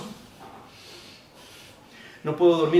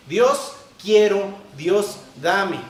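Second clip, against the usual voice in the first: demanding prayer; 4 dB louder, much slower than usual. Shown as a demonstration. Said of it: "estamos mal si lo hacemos de esa forma".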